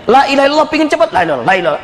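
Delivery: rushed dhikr. Shown as a demonstration. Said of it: "seperti apa itu zikirnya".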